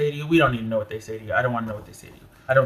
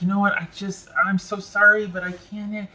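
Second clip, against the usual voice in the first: higher-pitched, mock-apologetic plea; apologetic excuse; 6 semitones higher than usual. Reader voicing someone backing out apologetically, mock-sorry. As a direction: act out an apology in a raised voice.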